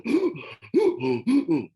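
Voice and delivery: high, loud puffed-up gasp; child's huffy gasp. Retold or imitated. Child bracing before accusing papa, mock gasp. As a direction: chest out, sharp indignant intake of breath. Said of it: "Langsung dadanya dia angkat begini sambil".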